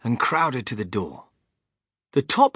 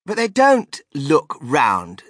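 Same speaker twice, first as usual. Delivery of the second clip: put-on whiny spoiled girl; 2 semitones higher, 8 dB louder, slower than usual.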